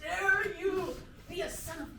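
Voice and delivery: stern dad voice. Acted. Improv dad scolding son.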